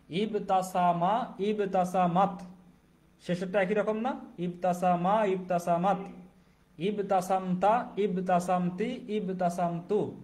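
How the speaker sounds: slow, careful recitation of each form; slow syllable by syllable. Shown as a demonstration. Teacher reciting slowly so students can copy. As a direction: break each word apart slowly. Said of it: "প্রথমে আস্তে আস্তে পড়বেন, ভেঙে ভেঙে".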